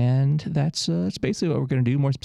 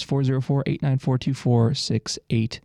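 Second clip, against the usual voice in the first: number rattled off quickly; kinda fast; 2 semitones higher than usual. Real, not acted. Radio host repeating the request line number, kinda fast. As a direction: run through the phone number briskly. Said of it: "I said that kinda fast".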